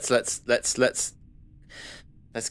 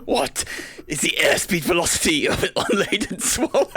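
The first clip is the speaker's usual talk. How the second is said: laughing question; 6 semitones higher than usual. Real, not acted. Joke question, table cracking up.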